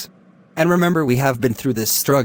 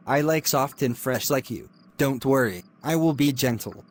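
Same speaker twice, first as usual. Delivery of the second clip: creepy hushed coaxing; 7 dB quieter than usual. Acted. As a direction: coax her in a hushed, creepy voice. Lecturer pressing the student.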